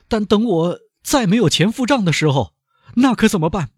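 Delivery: high, loud, exasperated banker; high angry banker demanding an answer. Acted. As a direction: snap it out in anger. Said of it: "唐格拉尔恼怒地说".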